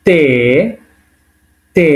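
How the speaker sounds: "তে", dental t and long e; Russian letter demo. Shown as a demonstration. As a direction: say "তে" with Bengali ত and a held vowel. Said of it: "Russian ভাষায় আছে ত".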